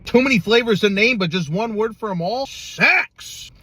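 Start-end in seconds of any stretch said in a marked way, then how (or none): 2.5-3.5 high, whispered Sex; breathy exclamation. Pretend. Host sums up all the flavors with one word, whispered high. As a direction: breathe it out as the punchline.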